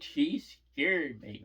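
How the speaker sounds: mock bawling. Upset girl tells the grown-ups why she's crying, mock bawling. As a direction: imitate a crying kid, stretching the words. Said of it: "why are you crying so bad".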